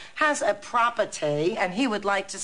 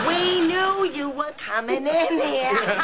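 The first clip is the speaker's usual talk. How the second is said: high triumphant shout; gotcha, yelled; gleeful shout; 8 semitones higher than usual. Acted. Prank reveal, shouting.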